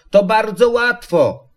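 put-on high childlike encouragement; high-pitched child's call; little one calling. A narrator's reading. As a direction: coax a friend in a high small voice. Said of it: "wołało maleństwo".

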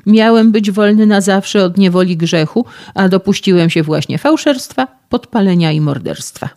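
loud, high, frantic confession; agitated outburst. Acted. Distraught young man confesses to the physicist, loud and frantic. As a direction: spill the crimes out in panic.

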